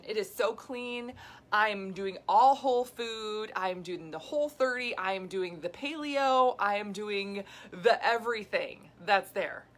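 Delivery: emphatic, mock-earnest listing, key words stretched out; frustrated insistence. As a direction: imitate exasperated dieters listing their efforts. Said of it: "the frustration that women have".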